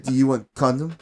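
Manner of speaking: lightly imitated Middle Eastern caller; a hint of a Middle Eastern accent on the phone; retold caller with a light Middle Eastern accent. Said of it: "you know, with his accent".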